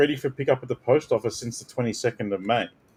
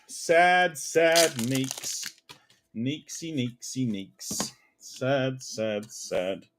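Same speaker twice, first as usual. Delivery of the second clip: mock sad; 4 dB quieter, much slower than usual. Pitying a card.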